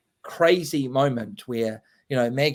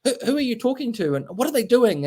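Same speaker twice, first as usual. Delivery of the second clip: raised, bossy leader's voice; higher, puzzled authority figure; quoting Lady Marie; 9 semitones higher than usual. Retold or imitated. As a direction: play the troop leader demanding answers. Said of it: "says to Maggie".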